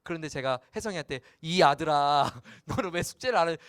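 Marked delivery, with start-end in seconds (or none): 1.4-3.6 louder, cold sulky scolding; sulky father. Shown as a demonstration. Pastor scolds his son Hyesung, sulky and cold. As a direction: distance the son with a pout. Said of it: "아빠가 지금 삐졌나 봐".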